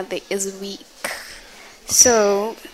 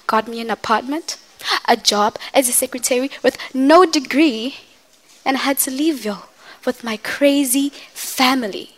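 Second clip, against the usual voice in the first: hurt mother telling her children her story, lightly acted; a mother proving she is not weak, building to defiance; mother venting monologue. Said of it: "this is from Medea's Funeral".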